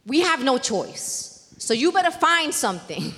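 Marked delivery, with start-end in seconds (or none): 1.6-3.2 chuckling through the words; laughing. Real, not acted. Joking remark to the audience.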